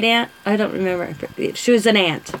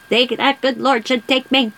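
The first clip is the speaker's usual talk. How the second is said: put-on old lady voice; 2 semitones higher than usual. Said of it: "That's how she talked".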